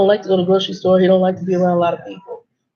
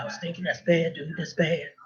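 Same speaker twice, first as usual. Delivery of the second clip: much softer, sheepish mumble; mumbled reply; 2 semitones lower, 10 dB quieter than usual. Retold or imitated. Young trainee admits the ice is bad, soft sheepish mumble. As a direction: trail off under your breath.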